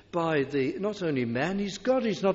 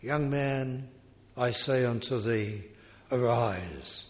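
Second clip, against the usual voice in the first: calm tender words over the dead; very gently; 4 semitones lower than usual. Acted. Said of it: "he just said very gently".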